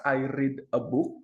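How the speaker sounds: "read" said as reed, slowly; present tense reed. Shown as a demonstration. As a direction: say "I read a book" with a long ee. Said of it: "yang atas".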